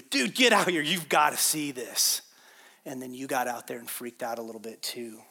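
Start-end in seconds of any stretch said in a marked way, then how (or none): 0.0-2.2 restrained imitation of calling to shore; mock yell. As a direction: raise it briefly, as if hailing a friend. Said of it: "they went yelling at the shore".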